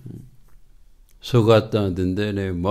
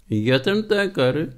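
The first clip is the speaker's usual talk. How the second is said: slow, deliberate, each word weighed, ਤਾਂ leaned on; slow insistence; 5 semitones higher, slower than usual. Real, not acted. Preacher repeating the call to try, slow and deliberate. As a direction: repeat it slowly as a firm reminder.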